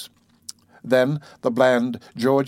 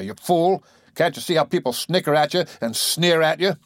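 raised, cruel scolding voice; 3 semitones higher than usual. Acted. Husband berates his wife's friend Zillah, cruel and raised. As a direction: lash into her without mercy. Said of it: "his voice was cruel".

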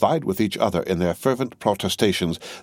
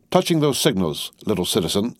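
mild sternness; 2 semitones higher than usual. Acted. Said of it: "said Madame Defarge sternly".

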